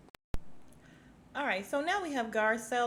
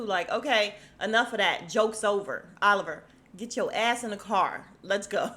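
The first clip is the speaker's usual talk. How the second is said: pretend scolding; 5 dB louder than usual. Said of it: "And I'm like".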